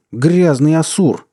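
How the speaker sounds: high, slow furious yell; loud, drawn-out angry cry. A narrator's reading. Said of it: "заорал Индра".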